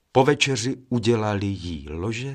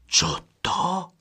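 a sharp high call of surprise; startled raised call; 7 semitones higher than usual. A narrator's reading. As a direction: call it out to the others. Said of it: "svolal první".

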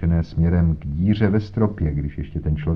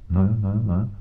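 pompous inspector. Acted. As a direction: lecture Holmes with condescension. Voiced inspector Jones talking. (nafoukaný inspektor, výš posazený hlas)

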